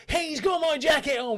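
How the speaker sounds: high and loud, a tattling stranger; whiny accuser. Retold or imitated. Stranger tells bouncer about the jacket, high and whiny. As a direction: squeal it like a snitch to the bouncer.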